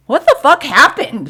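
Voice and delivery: high, loud burst of disbelief; re-enacted incredulous outburst; shocked demand. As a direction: exclaim it, demanding an explanation. Acted disbelief after the game.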